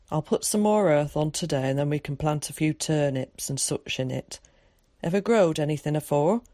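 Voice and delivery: lightly voiced countryman with rural dialect; Tom. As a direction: practical country talk, a touch of dialect.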